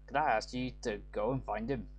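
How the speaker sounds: light Scottish-Irish lilt, read like a game line; a hint of a Scottish brogue, half Irish; Scottish accent. Father voicing his harsh streak to the lad, light Scottish accent. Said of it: "doing a Scottish accent or an Irish".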